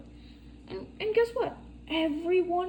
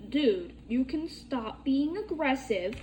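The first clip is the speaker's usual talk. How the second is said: firm retort; 7 dB louder than usual. Retold or imitated. Arguing back at the kid.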